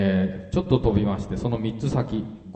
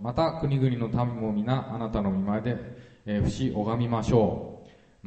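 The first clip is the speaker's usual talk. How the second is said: measured Bible reading, unhurried; scripture reading. Acted. Pastor reading a psalm aloud to the congregation, measured. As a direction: read the psalm out to the flock.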